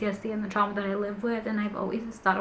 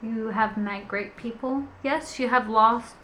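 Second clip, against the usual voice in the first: emotional. Real, not acted. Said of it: "this is making me emotional".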